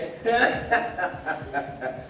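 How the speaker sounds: sly evil laugh; villain chuckle. Acted. Wolf gloating over his trick, evil chuckle. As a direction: chuckle wickedly.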